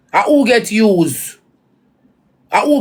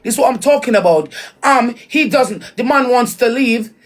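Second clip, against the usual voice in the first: mock English accent. Mocking someone who came back from England, mock English accent. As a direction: put on an English accent, punctuating with "yeah?". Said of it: "you make accent fool you".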